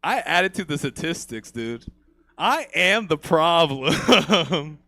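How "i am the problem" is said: laughing. Real, not acted. Self-mocking punchline, laughing.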